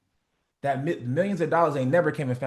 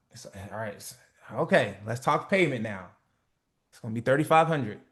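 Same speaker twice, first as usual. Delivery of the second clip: nervous low price; 4 semitones lower than usual. Shown as a demonstration. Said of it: "why would you say it that way".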